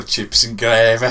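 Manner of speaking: slow mock Dudley accent; drawn-out bad Midlands accent; mimicked bad accent. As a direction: imitate a botched Dudley accent. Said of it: "You honestly just go".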